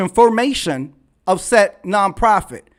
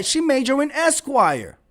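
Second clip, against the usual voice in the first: dry, quieter sarcastic echo; softer mocking repeat; 5 semitones higher than usual. Mocking a chat-room commentator's claim, dry. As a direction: repeat it dryly under the breath. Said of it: "That's what she said".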